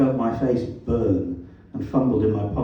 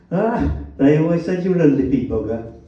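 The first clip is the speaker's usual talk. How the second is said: loud, raised Black Country jibe; Black Country accent; 5 semitones higher, 5 dB louder than usual. A narrator's reading. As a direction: needle him in broad Black Country. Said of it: "His black country accent was as vowelish as ever".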